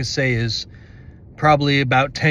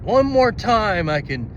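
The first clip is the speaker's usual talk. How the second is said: gloating villain; 3 semitones higher than usual. Retold or imitated. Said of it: "it was like".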